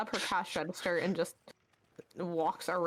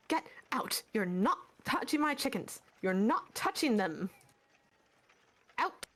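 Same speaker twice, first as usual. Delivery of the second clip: angry shopkeeper; 3 semitones higher than usual. Acted. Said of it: "reaches for a club and says".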